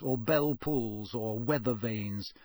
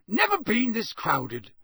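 high country voice, drawn out; musing countryman; rustic campsite owner, slow; 7 semitones higher, slower than usual. Acted.

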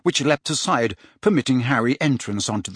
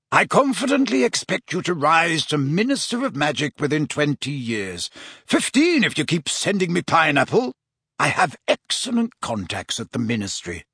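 lightly voiced chummy professor; jovial Slughorn; 3 semitones higher than usual. Slughorn to Riddle about his information, playfully impressed. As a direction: tease a favourite pupil in a mildly put-on voice.

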